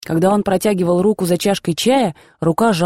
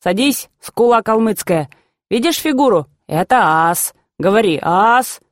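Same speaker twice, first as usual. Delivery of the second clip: cheerful call; 3 semitones higher than usual. Retold or imitated. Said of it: "бодро позвал меня".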